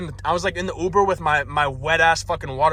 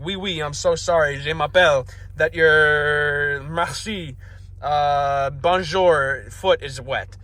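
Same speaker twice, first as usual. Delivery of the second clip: roughly attempted French accent, slowing down; bad French accent; slower than usual. Waitress apologizing to a soaked customer, clumsy French accent. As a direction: fumble through a mock French accent. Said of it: "in her French accent".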